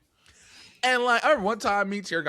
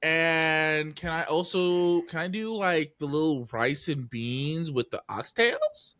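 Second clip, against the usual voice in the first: mock clueless customer; slower than usual. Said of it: "She's like".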